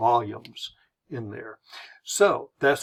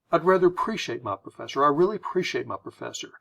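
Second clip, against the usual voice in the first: quick, light run-through; brisk and casual; careful polished phrasing; faster than usual. Shown as a demonstration. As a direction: speed through it without sounding stuck up. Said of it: "careful how you say it".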